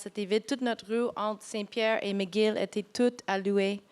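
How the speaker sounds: French spoken with a foreign accent; a non-native speaker talking French. Real, not acted. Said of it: "mon français est quand même comme ci, comme ça".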